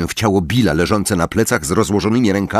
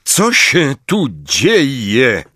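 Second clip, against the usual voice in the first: alarmed question; 5 semitones higher, much slower than usual. Acted. Lupin bursts in.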